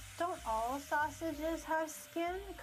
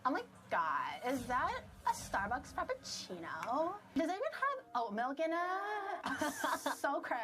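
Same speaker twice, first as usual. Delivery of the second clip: put-on Valley Girl accent; 2 semitones higher than usual. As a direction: try a Valley Girl voice, half-hearted. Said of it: "Attempt Valley Girl accent".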